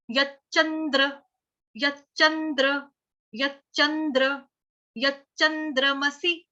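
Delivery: slow syllables. Shown as a demonstration. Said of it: "तो क्या बोलेंगे".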